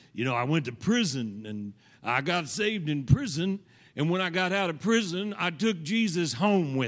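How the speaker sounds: real gruff storytelling voice. Retelling how a friend always told his prison story: Jeff's gruff voice. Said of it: "had a real gruff voice".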